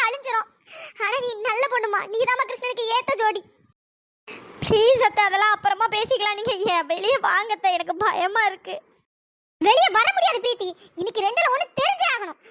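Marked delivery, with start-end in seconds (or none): 4.7-8.8 put-on a frightened young woman begging her aunt; scared young woman. Preethi begs her aunt to come out, frightened and pleading.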